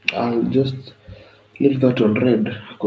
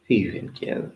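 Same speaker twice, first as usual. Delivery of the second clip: breathy whisper, voiceless. Shown as a demonstration. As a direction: whisper the repeat to yourself. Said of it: "But who even cares?".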